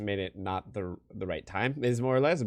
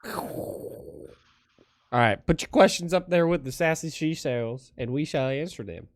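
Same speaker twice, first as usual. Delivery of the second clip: put-on Texas drawl, higher and louder; hamming up a Texas twang to announce questions; Texas accent; 6 semitones higher, 6 dB louder, slower than usual. Co-host hamming a Texas accent for viewers. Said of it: "That was my accent for the moment".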